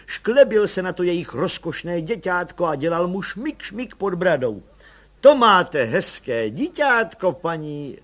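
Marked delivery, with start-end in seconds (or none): 5.2-8.0 slow, louder, higher friendly coaxing. A narrator's reading. Policemen flattering a mother's baby, slow friendly coaxing. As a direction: sweet-talk the mother kindly, slowly. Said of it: "říkali přívětivě".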